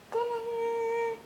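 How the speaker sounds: high squealed reveal; excited ta-da. Acted. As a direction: announce it with a flourish. Presenting the finished craft.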